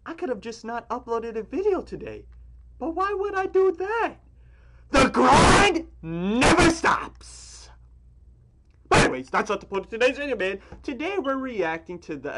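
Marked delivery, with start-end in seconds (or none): 4.9-7.7 hype shout. Real, not acted. Hyping his daily upload grind.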